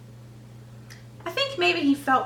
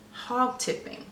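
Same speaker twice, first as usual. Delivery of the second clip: whisper; 6 dB quieter than usual. Pretend. Reader whispers answer to kids.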